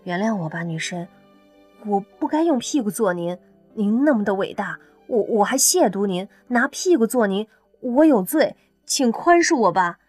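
grovel with exaggerated sincerity; earnest apology. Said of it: "诚恳地说".

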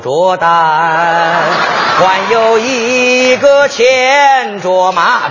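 very slow lyrical recitation; slow emotional poem reading. Pretend. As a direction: draw out each word like a poem. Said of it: "我主要让你看这个朗诵腔".

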